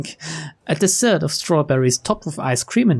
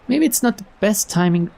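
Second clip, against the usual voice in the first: higher, lilting line reading; rejected first reading; 5 semitones higher than usual. Acted. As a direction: pitch the suggestion up high. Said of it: "Uh, no".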